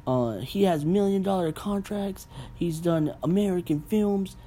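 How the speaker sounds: high, mocking fan voice defending the actor; defensive fan. Imagined fans defending the actor, high mock voice. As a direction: ham up a touchy superfan. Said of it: "Maybe you guys are like".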